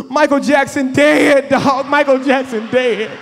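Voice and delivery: slow, drawn-out mock lament; mock grief. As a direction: moan the news like a tragedy. Brother mourning a famous singer.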